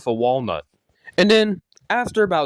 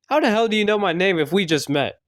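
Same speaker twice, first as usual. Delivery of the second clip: higher-pitched incredulous question; baffled, raised-pitch challenge; acted disbelief; 6 semitones higher than usual. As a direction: demand it in mock disbelief. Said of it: "he looks at you in disbelief".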